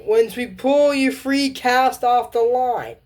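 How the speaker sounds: high, slow, loud commands; pirate captain orders. Acted. Pirate captain ordering the crew, slow and high.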